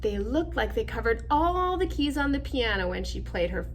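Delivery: measured storybook narration; reading to children. Acted. Reading picture book aloud.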